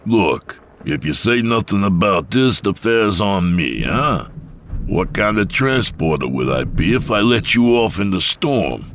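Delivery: loud, high nervous pleading; anxious pleading. Acted. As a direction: beg her to stay, too loudly. Mike pleading loudly.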